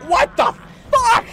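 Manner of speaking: high, cracking outcry; disbelieving cry. Real, not acted. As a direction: wail in disbelief. Crying out in disbelief.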